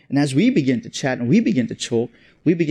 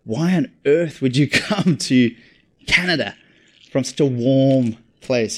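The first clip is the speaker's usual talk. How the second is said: imitated puzzled disbelief, slow and spaced out; mock bafflement, drawn out with pauses; quizzical. Canadians questioning his move from Cape Town, mock puzzlement. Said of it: "quizzical look in their face".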